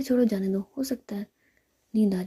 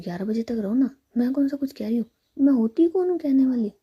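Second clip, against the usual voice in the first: sarcastic taunt; 3 semitones higher, 5 dB louder than usual. Acted. Sulking friend taunts.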